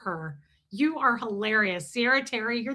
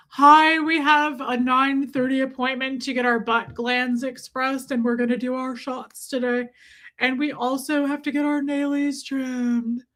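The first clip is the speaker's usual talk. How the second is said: weird pet voice. Retold or imitated. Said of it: "this weird thing that we started doing".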